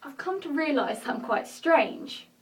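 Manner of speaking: rehearsed, deliberate confessional delivery; measured monologue with marked pauses; dramatic monologue. Acted. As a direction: perform it as a personal stage monologue. Performs own written monologue.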